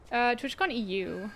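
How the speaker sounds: mildly disgusted answer. Real, not acted. Streamer naming the convention to chat, mildly disgusted. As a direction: say it with a touch of disgust. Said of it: "I said that in such a disgusted voice".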